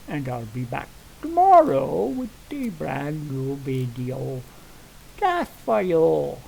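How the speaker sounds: lightly Irish leprechaun lilt; a hint of a playful Irish brogue; Irish accent. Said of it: "that was Irish. I sounded like a leprechaun".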